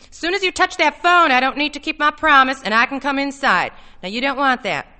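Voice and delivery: high, loud counter-warning easing at the end; forceful threat. A narrator's reading. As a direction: warn sharply, then ease off.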